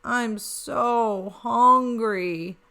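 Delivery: slow, drawn-out whine; whiny hungry. Acted. Bobby whining to siblings, slow and hungry. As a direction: drag it out like a starving pup. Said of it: "Bobby cried".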